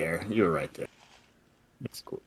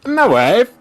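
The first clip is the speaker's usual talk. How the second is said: much higher, loud accented My wife; comic accent, louder; 13 semitones higher, 6 dB louder than usual. Shown as a demonstration. Host repeating the clue, loud high accent. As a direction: push the Borat voice further. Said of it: "here's the inflected quote".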